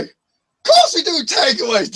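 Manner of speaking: slow, high mock Scottish indignation; angry Scottish man. Scottish takeaway man snapping at a prank caller. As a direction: drag it out, offended Scot. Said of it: "Dead mad, this Scottish guy".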